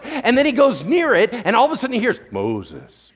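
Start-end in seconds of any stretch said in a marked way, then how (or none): 2.3-3.1 much lower, booming call of the name; voice of God. Pretend. God calling Moses from the burning bush, low and grave.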